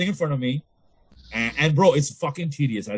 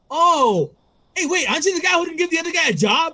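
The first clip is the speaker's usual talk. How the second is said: much higher, fast quizzical; mock stranger; 5 dB louder than usual. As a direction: recognize him with a startled squeak. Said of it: "he's like".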